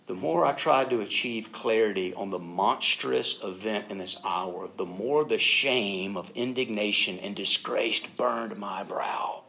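slow, measured read-aloud; solemn diary reading. Retold or imitated. Preacher reading a wounded soldier's diary, slow and measured. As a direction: read each phrase out deliberately.

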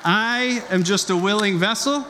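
laughing. Real, not acted. Joking after the jet ski story.

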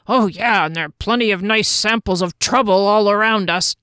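a hint of a sly, playful woman's voice; lightly voiced teasing Janet. Janet teasing her companions about nearby young men, lightly playful. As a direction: tease your friend about the lads, lightly voiced.

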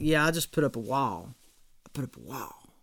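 dropping to a breathy murmur; mock murmur. Pastor mimicking guarded people, fading to a hush. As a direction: fade into a hushed mocking aside.

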